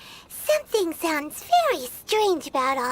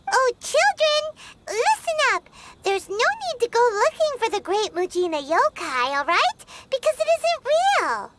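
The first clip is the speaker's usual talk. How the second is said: gentle explaining; 3 semitones higher than usual. Acted. Paimon gently telling the children the monster isn't real. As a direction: talk kindly down to children.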